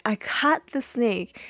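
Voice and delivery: so happy. Retold or imitated. Claire telling Rudy and Vanessa, so happy. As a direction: proudly announce it, slightly high and drawn out. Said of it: "they're both so happy".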